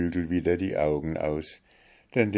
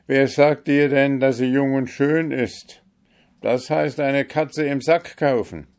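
higher, louder, wary reasoning; doubtful arguing; 8 semitones higher, 6 dB louder than usual. A narrator's reading. Kalif argues with his vizier about the unseen bride, higher and louder. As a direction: warn him it's a gamble.

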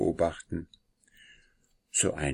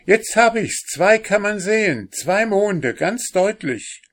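much higher and louder, bursting with excitement; excited cry; 13 semitones higher, 5 dB louder than usual. A narrator's reading. Brother at the telescope calls out to the family, excited. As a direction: call it out as the moons swim into view. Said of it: "ruft Christoph".

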